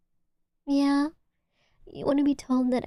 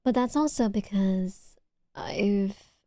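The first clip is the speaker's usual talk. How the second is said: slow unvoiced whisper; slower than usual. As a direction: let it drop to a hush. Whispered aside.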